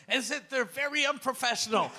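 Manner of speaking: high, loud laughing mock outrage; mock complaint. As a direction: playfully complain while cracking up. Joking complaint breaking into laughter.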